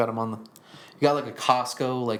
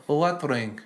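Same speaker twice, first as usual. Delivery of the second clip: a touch higher, innocent put-on voice; Putin impression; 4 semitones higher, slower than usual. Cohost voicing Putin denying the ring, mock innocent. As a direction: play dumb with mock innocence. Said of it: "you're really good at impressions".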